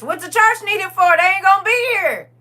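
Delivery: high, loud disbelief; incredulous. Real, not acted. Questioning why the church needs the donated car money, incredulous. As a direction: ask it like it makes no sense at all.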